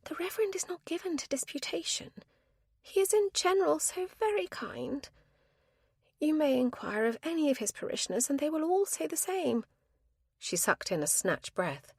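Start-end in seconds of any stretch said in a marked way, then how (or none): 0.1-9.6 a high, earnest spinster pleading her case; spinster's voice. A narrator's reading. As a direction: speak up for the Reverend, primly.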